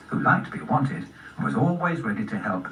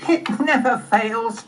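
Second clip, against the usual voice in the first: high, slow, emphatic cub voice; high-pitched cub declaration; fox cub; 10 semitones higher, 4 dB louder, slower than usual. Acted. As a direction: play a cocksure little fox cub.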